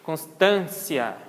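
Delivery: "Constância" slowly, ending in "tsia". Shown as a demonstration. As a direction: sound out "Constância" with TS. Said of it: "Equivale ao som de T S". ("Constância" devagar, com som de TS)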